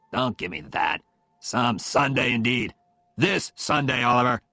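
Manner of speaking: a hint of stern father-in-law, slowing for emphasis; mildly gruff insistence; lightly voiced insistent Phil.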